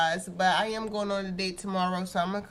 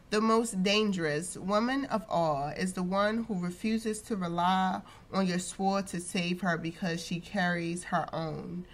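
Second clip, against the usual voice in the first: quote reading; 3 dB quieter, slower than usual. Real, not acted. Reads the quote of the week.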